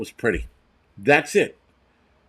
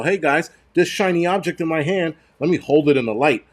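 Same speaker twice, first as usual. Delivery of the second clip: mock scam artist; 4 semitones higher than usual. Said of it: "scam artists of the world to be go".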